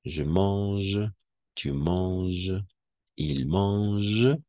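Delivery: mange said as one syllable, no final e; silent endings. Shown as a demonstration. Teacher modelling conjugation for Spanish speakers. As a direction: drop the written ending of mange. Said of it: "Pero vamos a escribir las terminaciones".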